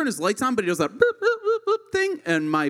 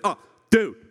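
dismissive excuse. Retold or imitated. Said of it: "always the same explanation".

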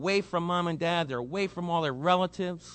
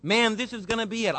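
excited husband; 4 semitones higher, faster than usual. Retold or imitated. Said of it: "he listens".

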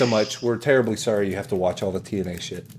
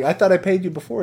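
high, confused customer voice; puzzled protest; 8 semitones higher than usual. Acted. Homeowner questioning the bill, high protest. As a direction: object in a raised pitch.

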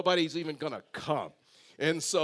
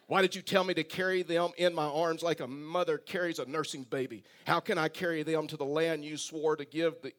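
put-on whiny complaint. Preacher reading Moses' complaint to the Lord, in a whiny voice. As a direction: read it as a mock whine. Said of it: "read this in a whiny voice".

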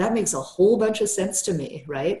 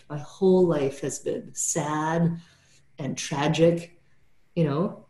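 slow, hushed, a touch of grief; softened sadness; slower than usual. Retold or imitated. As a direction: let the sadness under the anger show, slowly. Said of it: "the softening underneath the anger".

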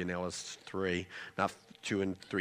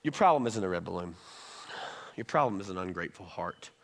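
gentle correction; 2 semitones lower than usual. Retold or imitated. Wise mother to son in the back of the car, gentle. Wiser wife counsels son.

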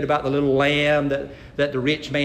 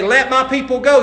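commanding Moses; 8 semitones higher, 6 dB louder than usual. Retold or imitated. Preacher voices Moses to Pharaoh.

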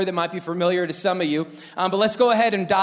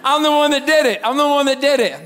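high, loud mock confession; frantic confession; 6 semitones higher, 5 dB louder than usual. Boy confesses to save his crying brother, loud blurt. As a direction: shout it out like a caught kid.

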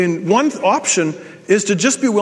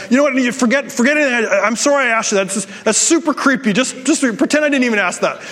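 higher-pitched flustered backpedalling; mock panic; 5 semitones higher than usual. Awkward man retracting a question to a stranger, mock panicked. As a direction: retell a panicked, stumbling apology. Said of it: "I'm panicking inside".

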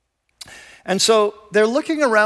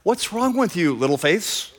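affectionate. Acted. Teacher to his frightened disciples, affectionate. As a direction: chide them fondly, lightly acted. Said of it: "his affectionate little term".

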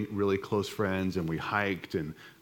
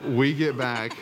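laughing; 3 semitones higher, 3 dB louder, slower than usual. Real, not acted. Laughing at his own story.

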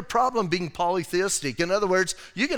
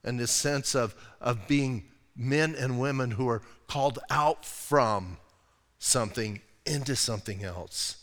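sincere; 7 semitones lower, 5 dB quieter than usual. Real, not acted. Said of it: "speaking from my heart".

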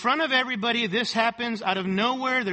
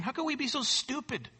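softly imitated pastor, pitched higher; gently; 5 semitones higher, 6 dB quieter than usual. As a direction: appeal gently and quietly to the congregation. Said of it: "he gently says this".

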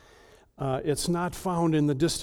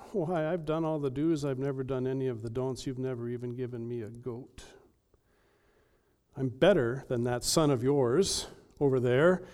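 put-on resentful older brother. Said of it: "the older brother's mad about".

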